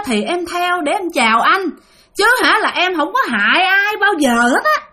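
vengeful ghost Bình greeting the grandfather, shrill and eerie. Acted. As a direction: play the dead woman, high and unsettling. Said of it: "giọng bà thấy ghê lắm, the thé".

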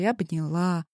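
ordinary delivery, nothing marked

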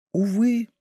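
1 sighing whisper. A narrator's reading. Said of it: "прошептала лавальер".

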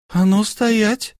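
stern wife ordering him to stop; sharp command. A narrator's reading. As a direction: halt him on the spot. Wife stops her husband.

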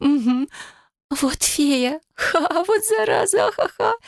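very high, giggling words through laughter; can barely speak for laughing; laughing fit. A narrator's reading. Katya cursing the fairy between fits of laughter. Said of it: "продолжала хохотать она".

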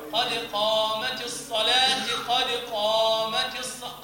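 قامت الصلاة with the ta of الصلاة wrongly given kasra, slow. Shown as a demonstration. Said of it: "يكسرون التاء في الصلاة".

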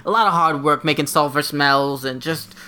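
lightly voiced goofy demon; a touch of a silly demon. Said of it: "demon character Brad's developing".

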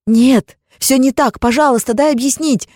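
high, loud desperate pleading; frantic wife pleading at full voice; desperate plea. Acted. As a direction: beg him to listen, crying out.

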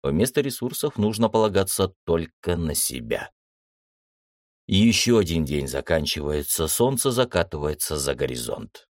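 usual speaking voice

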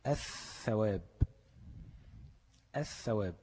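الثواب with a long, doubled ث and no L; lam merged into tha. Shown as a demonstration. Teacher showing the same rule, الثواب with held ث. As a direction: hold the th of ath-thawab. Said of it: "قلبت اللام لثاء".

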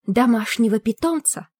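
eerie voice from beyond; a ghostly voice whispering in her head; otherworldly whisper. Acted. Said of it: "шепчущий потусторонний голос".

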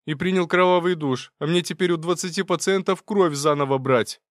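high, loud exasperated complaint; angry nurse scolding; annoyed nurse. Acted. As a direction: vent your irritation at the clumsy intern.

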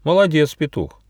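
high start, dropping at the end; exclaimed praise. Acted. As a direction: cheer the winner on. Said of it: "воскликнул Гоша".

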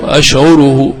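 أشعره said ash'uruhu, u after the ayn; damma on the ayn. Shown as a demonstration. Teacher confirms the attested form, damma on ayn. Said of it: "بالضم".

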